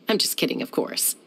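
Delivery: light laugh breaking into the words. Acted. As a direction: chuckle through "of course". Laughs at own joke.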